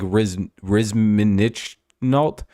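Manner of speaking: Rizminichnault drawn out syllable by syllable; slow careful foreign name; carefully sounded name. Shown as a demonstration. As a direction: spell out Rizminichnault slowly, sound by sound. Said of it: "nailed it on the pronunciation".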